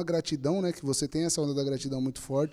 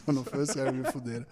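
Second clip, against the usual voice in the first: laughing; faster than usual. Real, not acted. Fala rindo, rápido.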